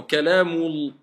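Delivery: Al-Qur'anu kalamul linked without a break, slow; liaison. Shown as a demonstration. Teacher demonstrating the linking, slow. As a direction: run Al-Qur'anu kalamul together.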